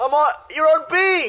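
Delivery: very high, loud, stretched-out, drawn-out yelling. Retelling what another speaker was doing before the podcast: imitating someone yelling. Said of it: "You just yelling".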